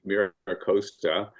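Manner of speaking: Costa said with a long O, as "coast-a"; anglicized "Costa" beginning like "coast"; Southern California pronunciation. Shown as a demonstration. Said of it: "the Southern California accent of it".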